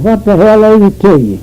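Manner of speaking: mildly angry comeback; retold mad retort. Man answering the woman who questioned him, mildly mad. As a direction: throw back an irritated challenge, lightly acted. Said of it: "He was mad".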